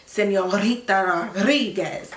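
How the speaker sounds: "Señorita Rodriguez" slowly with emphatic trilled R's; dramatic rolled R's. Shown as a demonstration. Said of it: "the way that she would say Señorita Rodriguez".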